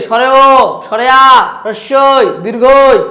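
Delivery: স্বরেও, স্বরেয়া, হ্রস্বই, দীর্ঘই each recited separately with the ending held; vowels sounded alone. Shown as a demonstration. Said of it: "যেগুলো নিজে নিজে উচ্চারিত হতে পারে". (স্বরেও থেকে দীর্ঘই, একটা একটা করে টেনে উচ্চারণ)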